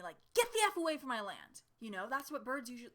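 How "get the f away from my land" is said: mock bird scream. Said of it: "screamed to alert me".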